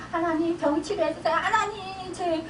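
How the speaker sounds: a touch of sobbing in a begging prayer; retold tearful prayer. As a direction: recall weeping to God, a little tearful. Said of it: "맨날 이러고 울었단 말이에요".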